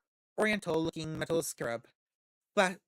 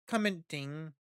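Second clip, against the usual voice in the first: laughing. Real, not acted. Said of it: "laughs at own stumble".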